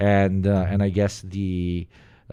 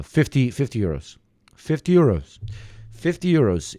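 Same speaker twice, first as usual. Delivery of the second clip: hammering home the wager; eager bet offer; 4 semitones higher than usual. Retold or imitated. Welsh friend pushing a fifty euro bet, eager.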